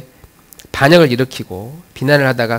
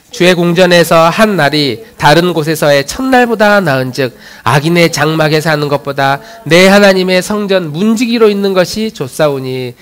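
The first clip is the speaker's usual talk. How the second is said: firm, projected congregational reading; scripture reading; 3 semitones higher, 4 dB louder than usual. Real, not acted. Pastor leading the congregation through a psalm, firm recitation. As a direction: read the psalm out for all to follow.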